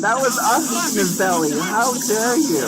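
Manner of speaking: high-pitched, playful indignation; mock outrage. Playful outrage at game event.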